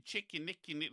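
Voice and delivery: lightly imitated New Zealand accent, "Chick" and "Nick"; a touch of New Zealand accent. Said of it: "It was just a great accent".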